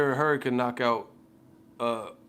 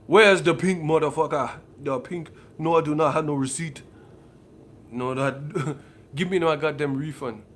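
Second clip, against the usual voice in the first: louder, pushy complaint; mock angry customer; 3 semitones higher, 6 dB louder than usual. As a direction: demand your money back, hammed up. Acting angry customer demanding refund.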